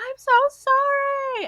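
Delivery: frantic, shrill, loud panicked yell, "sorry" stretched out. Recalling a moment she panicked, the speaker retells her own yell. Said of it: "I remember I yelled".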